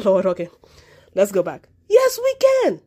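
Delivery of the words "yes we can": 1 emphatic high answer. Real, not acted.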